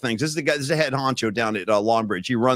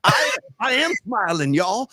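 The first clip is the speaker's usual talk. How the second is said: mock impatient Bobby; 8 semitones higher than usual. Voicing Bobby, impatient for photo.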